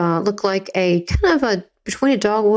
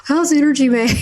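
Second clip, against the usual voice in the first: high-pitched imitation of a child's question; curious kid; 6 semitones higher, 3 dB louder than usual. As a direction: ask it like a wide-eyed little kid. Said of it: "like your kid".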